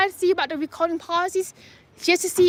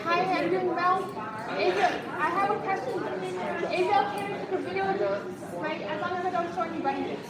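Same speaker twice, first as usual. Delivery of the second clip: library whisper; 11 dB quieter than usual. Real, not acted. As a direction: keep it soft so you don't disturb anyone. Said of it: "I gotta use my library voice".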